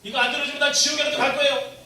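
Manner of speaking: mock a spoiled child bargaining with God; preacher mimicking an immature believer, loud and high; demanding child.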